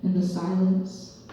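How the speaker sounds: lightly performed spoken-word poem; measured poetry reading with punched phrases; poem recital. Acted. Poet performing a monologue about her father, lightly dramatic recital.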